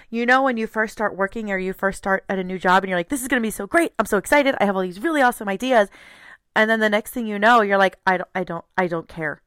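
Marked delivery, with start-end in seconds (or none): 3.1-5.9 mildly gushing with enthusiasm; excited new hire. Acted. Someone starting a new job, excited. 8.0-9.4 mild lackadaisical shrug. Acted. Worker who has stopped caring, lackadaisical. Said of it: "get in this lackadaisical attitude of".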